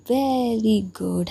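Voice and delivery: drawn-out, very slow mock praise; sarcastic praise. Injured girl mocking her rival's scolding with sarcasm. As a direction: stretch it out with sarcasm.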